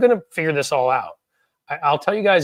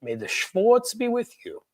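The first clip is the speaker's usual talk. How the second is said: Spaceballs quote; 7 semitones higher, slower than usual. Acted. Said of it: "love me some Spaceballs".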